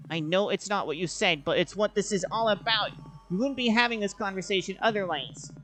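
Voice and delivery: frustrated outburst; rising anger. Acted. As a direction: push back, voice climbing. Argument flares up.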